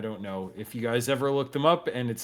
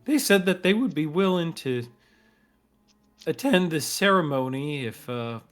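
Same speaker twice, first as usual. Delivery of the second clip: Thorn; 3 semitones higher, 4 dB louder than usual. Acted. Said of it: "he says".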